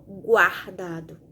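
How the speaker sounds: "Guardado" slowed, every sound of gu heard; teacher repeating "Guardado" slowly for the pupils; slow demo word. Shown as a demonstration. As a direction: stretch "Guardado" out syllable by syllable. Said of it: "Veja que eu falo o som do G e o som do U".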